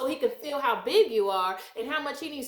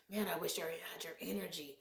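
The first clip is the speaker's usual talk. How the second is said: mimicked friend; 9 semitones lower, 16 dB quieter than usual. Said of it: "used to say it all the time".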